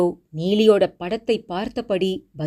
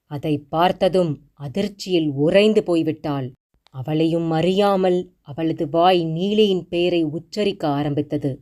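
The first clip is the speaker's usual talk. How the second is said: ordinary delivery, nothing marked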